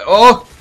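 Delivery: high, loud "oh!"; sudden exclamation at a near miss; real burst of surprise; excited gasp. Real, not acted. Narrowly misses multiple kill.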